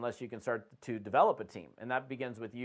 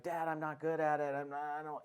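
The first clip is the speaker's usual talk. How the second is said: imitating crying son; 4 dB quieter than usual. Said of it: "he starts crying".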